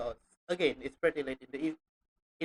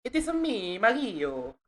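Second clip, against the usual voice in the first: Mario-style mock Italian accent; imitated Italian accent, cartoon plumber style; slower than usual. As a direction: do a playful Italian Mario impression. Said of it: "my Italian accent actually better".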